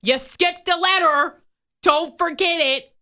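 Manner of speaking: high, slow pedantic correction; mock know-it-all correcting; nitpicky. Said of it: "There are people who... are like".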